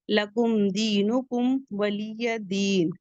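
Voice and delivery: slow melodic recitation; Quran recitation. Shown as a demonstration. Teacher recites the last verse for the class, slow recitation. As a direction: chant the final verse slowly. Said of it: "recites the verse".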